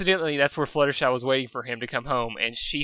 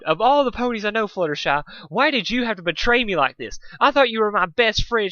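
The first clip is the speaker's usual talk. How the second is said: mock sob; 8 semitones higher, 5 dB louder than usual. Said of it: "she sobbed".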